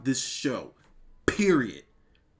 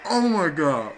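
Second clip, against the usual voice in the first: shouting a wrestler's name, louder and higher each time; real excited shout; 6 semitones higher, 7 dB louder, much slower than usual. Real, not acted. Fan reacting live, shouting the wrestler's name in shock. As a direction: yell his name in shocked delight.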